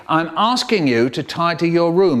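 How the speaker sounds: firmer, stress on asking; the second, sterner telling-off; nagging parent repeating. Retold or imitated. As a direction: parent losing patience over the room. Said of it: "They say".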